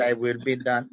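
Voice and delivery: light South Texas Valley accent imitation; mock South Texas accent, droning prayer; South Texas rosary accent. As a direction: recite like a Valley rosary lady's accented English. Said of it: "wicked South Texas".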